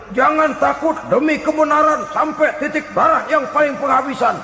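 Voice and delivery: rally the troops in mock heroics; mock rallying cry. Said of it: "teriaknya nyaring bener".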